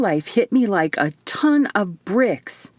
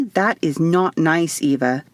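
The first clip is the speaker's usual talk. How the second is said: slow, playful finger-wagging scold; mild scolding. Acted. Isadora teasingly scolding Eva for a secret plan, mild scold. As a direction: tut at her like a teasing aunt. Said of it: "Isadora scolded with a wagging finger".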